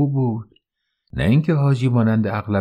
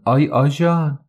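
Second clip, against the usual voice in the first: higher, louder call for the policeman; 6 semitones higher, 3 dB louder than usual. A narrator's reading. Woman calls the policeman on Haji, loud call. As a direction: cry out for the cop.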